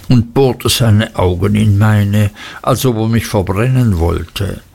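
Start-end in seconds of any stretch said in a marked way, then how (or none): none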